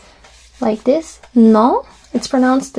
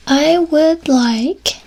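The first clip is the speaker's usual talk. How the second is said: I would like said very slowly and higher; slow translation; 4 semitones higher, much slower than usual. Shown as a demonstration. Teacher translates je voudrais slowly for learners.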